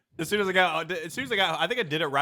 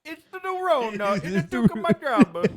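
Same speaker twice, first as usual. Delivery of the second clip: high, slow mock Italian accent; 8 semitones higher, slower than usual. Joking with friends, mock Italian accent again. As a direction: ham up Italian vowels. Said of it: "There's the accent again".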